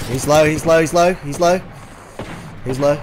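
shouted callout, urgent; combat callout. Real, not acted. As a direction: yell it to the squad. Calling out enemy low health.

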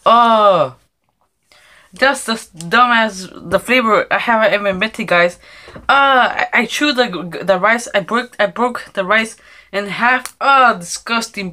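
loud, grossed-out complaining; slow, loud disgust at the taste. Real, not acted. Spitting out bad-tasting gum.

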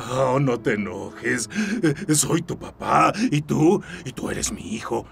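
deranged sweet-talk to an imagined son; coaxing a child. Acted. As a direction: wheedle a child who isn't there.

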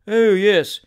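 loud, self-satisfied yes; conscious pride. Acted. Shooter praised for firing, conscious pride. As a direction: preen a little on the words. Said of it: "with conscious pride".

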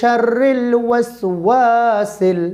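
শাররিল with a doubled র and short শা; slow recitation. Shown as a demonstration. Teacher reciting শাররিল with correct doubling. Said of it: "শা কোনো টান নেই".

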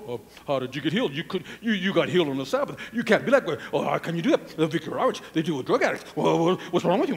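low, fast, fussy objector; mock religious folk. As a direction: mimic fault-finders talking over each other. Mimics fault-finding religious folk.

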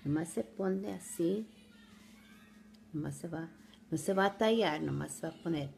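Spanish with an American accent. Real, not acted. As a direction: speak Spanish like an American learner. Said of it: "Disculpen mi español".

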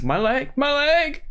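high, wailing cartoon whine; SpongeBob cartoon cry. The SpongeBob background character crying about his leg. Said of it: "that guy from SpongeBob that says".

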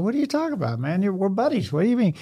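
high, incredulous retold protest; mock disbelief. Fire captain protesting to a rival captain, incredulous. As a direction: act stunned the buddy would ban them.

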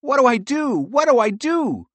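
high-pitched fretful repetition; worried squirrel at a loss; panicking. A narrator's reading. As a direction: fret aloud in a high voice. Pearl panics, needs to think fast.

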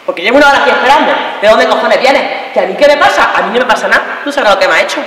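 hammed-up jealous indignation; angry scolding. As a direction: lay into a late partner. Acted quarrel with late boyfriend.

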